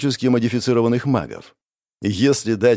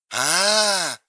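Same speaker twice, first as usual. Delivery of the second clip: a long, knowing "А", stretched out; knowing drawn-out ah; 7 semitones higher than usual. A narrator's reading. She finally understands the boyfriend and drawls knowingly. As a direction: stretch the sound like you finally get it. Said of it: "понимающе протянула она".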